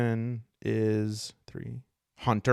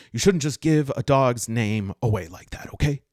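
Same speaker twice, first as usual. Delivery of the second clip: lightly voiced touchy elf, louder; touchy elf, first try; 7 dB louder than usual. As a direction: scold a stranger in a barely altered voice. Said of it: "zero in on this voice".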